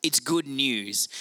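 "good" stressed, said slowly; "It's GOOD news", slow and settled; contrasting with good advice, slow stress on "good"; slow emphasis. Shown as a demonstration. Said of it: "It's not good advice".

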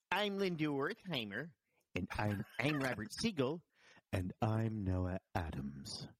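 slow, hushed public-radio announcer voice, drifting into a whisper; a light send-up of a radio sign-off, slowing to a near whisper; NPR host impression. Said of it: "they just have a very distinctive voice, way of talking".

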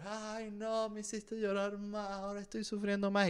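hammed-up tearful whimper, high and hushed; mock crying wail. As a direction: whine it like an overacted crybaby executive. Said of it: "responde con otra foto llorando peor".

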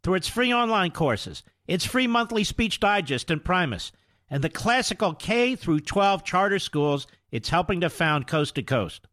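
steady, polished sponsor read. Acted. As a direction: sell the college smoothly to listeners. Host reads sponsor ad.

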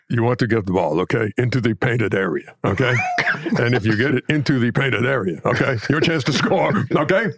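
emphatic coaching analyst, punctuated with rising okays; imitation of an instructive old-school coach; Hubie Brown. Shown as a demonstration. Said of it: "Hubie Brown".

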